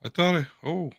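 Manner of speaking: glitchy robotic voice from a bad connection; choppy robot voice breaking up. Real, not acted. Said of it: "You sound like a robot?".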